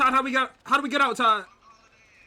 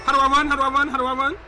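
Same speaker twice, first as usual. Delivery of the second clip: urgent; 3 semitones higher, 9 dB louder, faster than usual. Real, not acted. Fleeing, asking repeatedly.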